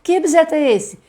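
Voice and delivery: put-on high, bright question to a child; teacher question. Shown as a demonstration. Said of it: "Olha um objeto".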